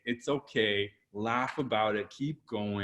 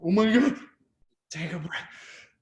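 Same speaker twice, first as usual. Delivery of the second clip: exasperated listener; 8 semitones higher, 3 dB louder than usual. Retold or imitated. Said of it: "from the recipient's point of view".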